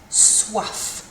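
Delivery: "Soif" breathed out without voice; whispered model word. Shown as a demonstration. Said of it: "Think of quaffing a drink".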